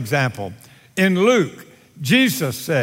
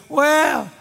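pitched-up, minimizing admission; man excusing himself; 5 semitones higher than usual. Acted. Man looks up to God about drinking, excusing himself. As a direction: shrug off the fault in a higher voice. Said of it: "Man looks up and says".

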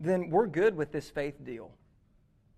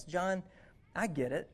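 gentle reassurance. Retold or imitated. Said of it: "gently affirms him".

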